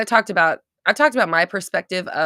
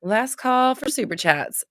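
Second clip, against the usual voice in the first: drawn-out, higher last call; 7 semitones higher, slower than usual. Real, not acted. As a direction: call it out slowly to the audience. Calls out last chance to viewers.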